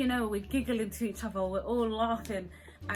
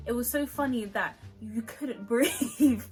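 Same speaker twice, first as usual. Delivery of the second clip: laughing through; 5 dB louder than usual. Real, not acted. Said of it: "everything was too funny".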